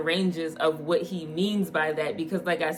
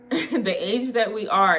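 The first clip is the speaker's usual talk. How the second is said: slower, laughing, emphasizing each word; laughing restatement; 3 semitones higher, 3 dB louder than usual. Real, not acted. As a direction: repeat it slower through a laugh.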